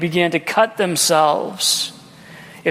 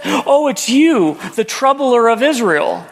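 higher, drawn-out mock royal accusation; scornful King Ahab; 5 semitones higher than usual. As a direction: voice a king greeting his troublesome enemy, slowly. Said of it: "you know what King Ahab says".

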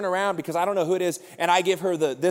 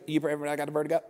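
low, softer, slurred request; mumbling man; 3 semitones lower, 6 dB quieter, much faster than usual. Retold or imitated. Man asking for prayer, low unintelligible mumble. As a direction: run the words together so they barely make sense. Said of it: "what did you say?".

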